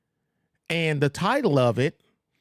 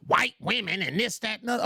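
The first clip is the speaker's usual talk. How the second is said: mocked complaint; 6 semitones higher, 4 dB quieter, faster than usual. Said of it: "she talk".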